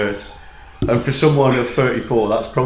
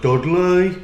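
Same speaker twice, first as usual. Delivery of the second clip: Dudley accent; 5 semitones higher than usual. Shown as a demonstration. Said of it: "Can you do a Dudley for me?".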